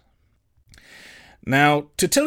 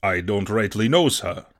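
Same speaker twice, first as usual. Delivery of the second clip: low, meek sailor's mumble; sheepish old sailor; 6 semitones lower than usual. Acted. Morgan dodges Silver's question, sheepish low voice. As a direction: answer the boss humbly and low, fading on sir.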